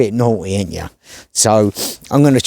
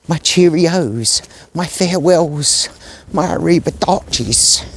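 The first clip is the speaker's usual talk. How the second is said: slow, drawn-out theatrical goodbye; milk each farewell slowly like a hammy gent; mock grand farewell; 2 semitones higher, slower than usual. To the dogs, a slow hammed-up farewell. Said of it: "And there's me saying".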